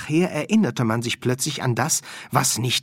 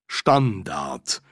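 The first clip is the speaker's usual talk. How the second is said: baffled; 4 semitones lower than usual. Acted. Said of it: "vollkommen verwirrt".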